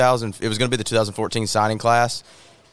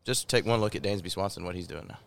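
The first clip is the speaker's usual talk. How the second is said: off mic; 7 dB quieter than usual. Real, not acted. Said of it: "Get as close to that thing as you can for me".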